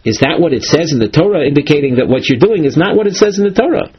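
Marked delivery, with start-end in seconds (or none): 0.1-1.4 a gentle show of wonder at the verse; wonderment. Shown as a demonstration. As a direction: ask it like you can't believe the verse says that. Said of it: "with an expression of wonderment".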